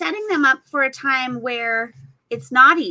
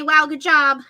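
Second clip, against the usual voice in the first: excited praise; 4 semitones higher, 7 dB louder than usual. Retold or imitated. Praising a painting.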